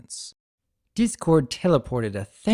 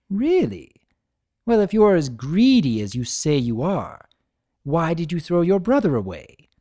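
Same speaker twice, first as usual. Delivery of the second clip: higher, louder, gleeful chaos spirit; playful trickster Discord; 5 semitones higher, 4 dB louder than usual. Acted. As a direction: tease him like a smug jester. Discord voiced in the story.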